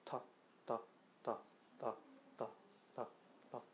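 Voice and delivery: 터 losing force step by step, fading to a whispered tap; 터 weakening from firm to a light tongue touch; t softening to a flap. Shown as a demonstration. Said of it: "붙였다가 떼준다는 느낌으로".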